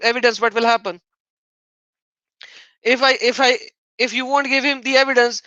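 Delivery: usual speaking voice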